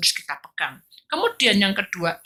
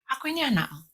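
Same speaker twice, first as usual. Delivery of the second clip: humble whispered prayer. Retold or imitated. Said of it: "Ternyata dia hanya bilang gini".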